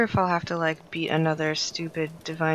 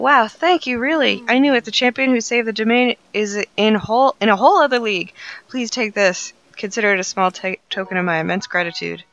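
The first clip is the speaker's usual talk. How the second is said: loud, high, gushing character voice; excited NPC voice; 4 semitones higher, 9 dB louder than usual. Acted. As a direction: play the thrilled game character. Reads out an NPC's lines.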